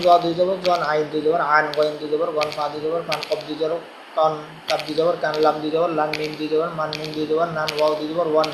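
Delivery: even, level-toned letter drill; spelling drill recitation. Shown as a demonstration. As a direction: recite each letter spelling to a steady beat. (একটানা সুরে বানান মশক)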